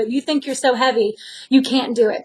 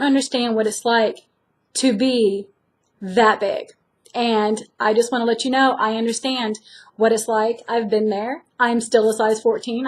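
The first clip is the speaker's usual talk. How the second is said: reassuring; 2 semitones lower, 3 dB quieter than usual. Real, not acted. Comforting viewers who struggle.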